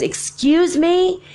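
high, drawn-out mock-indignant excuse me; stretched, high-pitched affront. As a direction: imitate someone butting in, affronted. Retold man butts into conversation.

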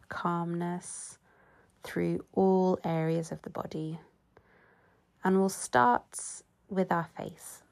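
unhurried yoga nidra body scan; guided relaxation. Real, not acted. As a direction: guide them into calm, pausing between phrases.

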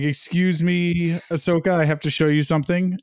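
lightly voiced prim robot butler; a hint of a sassy robot servant; sassy butler bot. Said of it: "Sassy Butler Bot is like".

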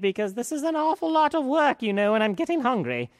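put-on high, fussy old fairy rattling off a list; fairy godmother. A narrator's reading. Fairy godmother asking Cinderella for things, high and fussy.

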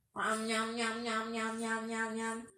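munching sounds. Acted. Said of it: "sukanya makan biskuit".

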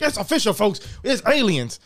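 booming wrestling announcer read. Retold or imitated. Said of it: "Why do you sound like a W B announcer?".

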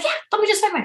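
high, warm insistence on paying for her; insisting kindly. Retold or imitated. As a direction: brush off her refusal gently. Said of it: "I'm like".

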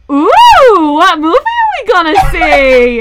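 put-on loud, high, slow little kid voice with an accent; a kid loudly announcing in a dark theater, high and slow; high-pitched kid voice. Imitating the kid who loudly asks in the theater. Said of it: "In this, like, really high-pitched voice and adorable accent".

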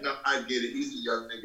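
soft, understated imitation of a forgiving elder; gracious retold reply. Star excusing the young nephew to uncle, gracious. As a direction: wave it off quietly, as the star did. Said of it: "He was very gracious".

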